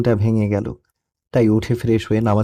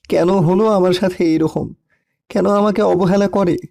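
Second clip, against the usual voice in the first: pleading questions rising higher in anguish; tearful lament; 5 semitones higher than usual. Acted. Orphaned son cries to his dead parents after prayer, tearful lament. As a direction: lament with climbing pitch, like pleading through tears. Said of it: "আর কান্না করতে লাগলাম".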